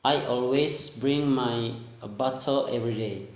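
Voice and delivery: lightly attempted British accent; British-style bottle with a crisp T. Shown as a demonstration. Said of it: "That for the British action".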